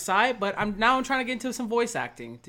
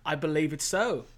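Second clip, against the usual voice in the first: mock British accent; 2 semitones lower than usual. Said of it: "I'll break the accent now".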